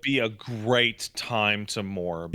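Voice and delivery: slow, drawn-out deadpan emphasis on GREAT; slow, weighty joke delivery; mock-solemn correction. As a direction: stretch it out with mock gravity.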